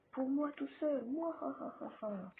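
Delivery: greedy villain gloat with laugh; mustache twirling villain. Acted. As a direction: gloat like a cartoon miser. Greedy boast about bamboo.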